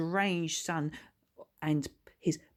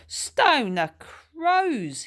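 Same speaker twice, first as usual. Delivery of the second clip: slow, gasped-out exclamation, higher and louder; gasping in shock; 11 semitones higher, 7 dB louder, much slower than usual. Acted. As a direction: choke the words out in shock. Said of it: "he said, gasping for air".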